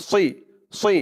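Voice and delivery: "সি" with a heavy, full-mouthed sad; correct sad sound. Shown as a demonstration. Teacher showing the right letter, "সি" with emphatic full s. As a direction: fill the mouth on the s of "সি". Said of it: "বলতে হবে সদ জের".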